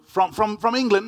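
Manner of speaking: a lightly voiced curious stranger; humorous questioner. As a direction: play the eager stranger guessing countries. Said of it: "more sort of humorously, people say".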